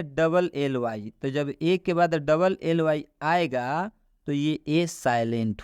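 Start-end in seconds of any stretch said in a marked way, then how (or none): 0.0-1.1 slow, drawn-out answer to her own question. Shown as a demonstration. Teacher slowly answering her own question for students. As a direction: answer slowly so the class repeats it. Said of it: "ए के बाद क्या आना चाहिए?".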